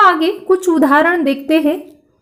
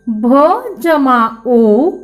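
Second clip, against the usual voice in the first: slow spelling out; much slower than usual. Shown as a demonstration. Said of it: "भ को ओ की मात्रा लगी है".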